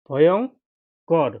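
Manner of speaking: ভয়ঙ্কর drawn out slowly; 1 slow model word. Shown as a demonstration. Teacher spells for the class, ভয়ঙ্কর slow and drawn out. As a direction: stretch ভয়ঙ্কর out for the pupils. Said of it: "teacher models the word slowly".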